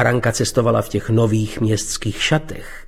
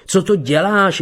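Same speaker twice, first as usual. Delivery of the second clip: high, sharp cry; 7 semitones higher than usual. A narrator's reading. Bernard to Beata hitting him, crying out high. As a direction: shout it out in shock. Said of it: "vykřikl".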